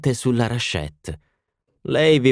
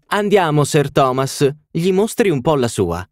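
higher, louder urging hostess; coaxing call; 7 semitones higher, 4 dB louder than usual. A narrator's reading. Hostess urging Sir Thomas forward, loud and coaxing. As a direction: call him over with a coaxing push.

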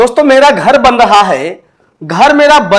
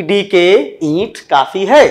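slow, lower, easy delivery; acted relaxed calm; 3 semitones lower, 4 dB quieter, slower than usual. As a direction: drop the pitch and take it easy. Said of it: "relax में कहा". (आराम से, धीमी और नीची आवाज़ में)

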